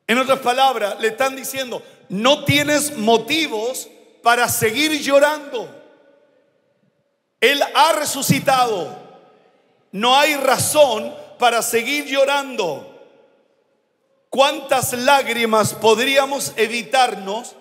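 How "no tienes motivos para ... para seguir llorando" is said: preacher proclaiming "Él ha resucitado" with force; reassure, then lift to a proclamation; fervent reassurance. Acted. (proclamación fervorosa)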